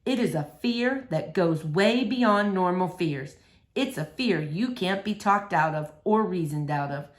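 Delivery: a hint of a patient preacher; calm preacher. Preacher explains pathological fear.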